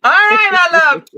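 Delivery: high, loud and bright call of affection; high excited call. Real, not acted. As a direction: lift the voice up high and call out fondly.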